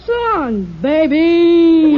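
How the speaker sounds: put-on loud tough guy sign-off, baby shouted; hammed-up gangster farewell. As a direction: bark it out like a movie hoodlum.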